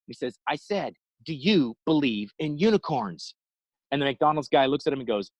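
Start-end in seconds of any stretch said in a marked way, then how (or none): 0.5-3.3 each word spelled out, slower; slow insistent repeat. Retold or imitated. Driver repeats his odd question to the McDonald's guy, slow and insistent. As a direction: repeat it deliberately like he missed it.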